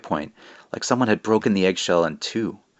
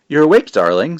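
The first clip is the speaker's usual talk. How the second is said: raspy witch voice; 7 semitones higher, 7 dB louder than usual. Acted. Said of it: "said a woman in a raspy voice".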